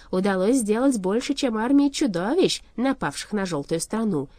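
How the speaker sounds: loud, boastful villain proclamation; haughty shadow king. Acted. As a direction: proclaim the master's might, slowing for weight.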